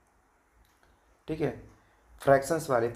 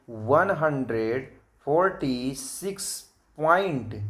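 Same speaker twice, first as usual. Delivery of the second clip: "वन हंड्रेड फ़ोर्टी सिक्स पॉइंट" word by word, stretched out; slow, measured teacher's read-out of "वन हंड्रेड फ़ोर्टी सिक्स पॉइंट"; model reading; slower than usual. Shown as a demonstration. Teacher showing children how to read decimals, "पॉइंट" drawn out. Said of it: "इसको हम पढ़ेंगे".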